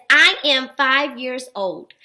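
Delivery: measured, word-by-word reading; slow read-out. Shown as a demonstration. Teacher reads an example sentence to children, slow read-out. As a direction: read it out slowly for young learners.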